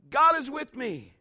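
high, drawn-out repeat; echo calling back. Acted. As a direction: imitate the echo answering.

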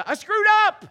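preacher shouting his own confession; loud confession. Acted. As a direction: own it at full voice. Emphatic admission in sermon.

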